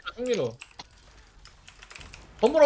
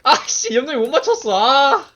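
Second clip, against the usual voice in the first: higher, louder missed-shot groan; frustrated shout; 5 semitones higher, 8 dB louder than usual. Real, not acted. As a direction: yell in frustration. Missed a skill mid-fight.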